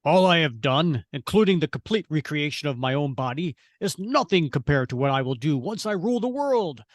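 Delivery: grand villain voice, unhurried; grand languid royal commands. Acted. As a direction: proclaim it like a ruling tyrant. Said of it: "a notable quote from Sultan".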